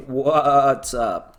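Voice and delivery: slow, drawn-out bleating goat voice; goat impression. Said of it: "That's my best ... impression of a goat".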